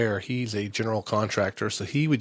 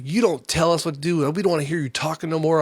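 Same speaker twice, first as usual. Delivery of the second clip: higher, mildly heated imitation of a scolding; retold telling-off; 6 semitones higher, 3 dB louder than usual. Team owner to complaining parent, retold telling-off. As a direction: act out the owner's rebuke.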